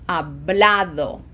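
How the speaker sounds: hablado with the middle A stressed; hablado, stressed as ha-BLA-do. Shown as a demonstration. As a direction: lean on the second syllable, "bla", in hablado. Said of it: "it falls right there on the A".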